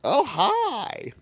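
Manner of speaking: high, bright surprised hi; excited greeting. Acted. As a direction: pop up with a cheery hello. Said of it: "peek around and be like".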